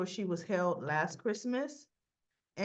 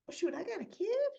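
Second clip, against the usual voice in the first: pitched way up, a mock-frantic realisation; mock dawning panic; 11 semitones higher than usual. Recapping Esme forgetting her baby, mock panic. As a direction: play the mother who just remembered her kid, half-laughing. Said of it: "Who's thinking".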